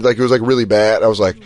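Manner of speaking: ordinary talk, nothing marked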